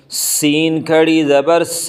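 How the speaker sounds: سین with a sharp whistling s; whistled seen. Shown as a demonstration. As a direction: hiss the س like a whistle. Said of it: "سین سیٹی کی آواز نکالنی ہے". (سیٹی کی آواز والا سین)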